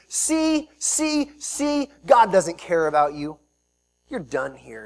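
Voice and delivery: mock yell. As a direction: jeer like a man throwing rocks. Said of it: "he's yelling, he's saying".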